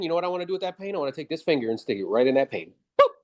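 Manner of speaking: ordinary delivery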